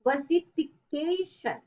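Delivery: "versification" said slowly, stress on the second last syllable "ca"; model pronunciation. Shown as a demonstration. Teacher slowly models "versification" for the class, stress on "ca". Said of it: "pronounce it like".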